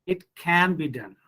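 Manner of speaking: emphatic "can", then fall away on "be done"; stress on CAN. Shown as a demonstration. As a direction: lean on "can" to assert it. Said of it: "auxiliary verbs can be stressed".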